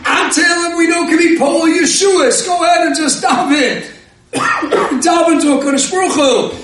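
urgent rebbe. Retold or imitated. Rosh kollel urges the desperate student to pray, fervent half-shout. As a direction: push him to go pour his heart out.

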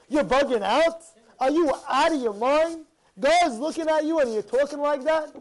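loud, incredulous scolding; stern rebuke. Acted. Rabbi scolding a congregant who gets angry, stern and loud. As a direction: demand how they dare, loudly.

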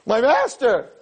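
lightly hammed-up exclamation; mock reverence. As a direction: hail him with exaggerated homage. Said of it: "you're bowing down to him".

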